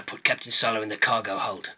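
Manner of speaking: lightly voiced bounty hunter, clone-like; a hint of a clone soldier's voice; Boba Fett. Toy reviewer demonstrating the character's newer voice, light clone impression. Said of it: "he talks like this now".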